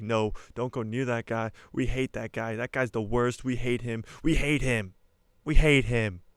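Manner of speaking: grumpy uncle building to a loud shout of we hate him; angry uncle. Retold or imitated. Uncle Owen warning Luke off Ben, building to a yell. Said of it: "He's like".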